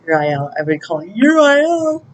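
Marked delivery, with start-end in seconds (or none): 0.0-0.5 drawn-out rising cry for attention; calling out. Retold or imitated. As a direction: call out to an angel, rising in pitch and volume. Calling on angel for help.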